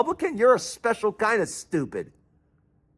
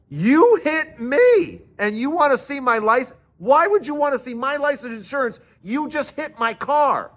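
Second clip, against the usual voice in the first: higher, incredulous protest; can't believe he wants my license; indignant disbelief; 7 semitones higher than usual. Retold or imitated. Indignant at the cop.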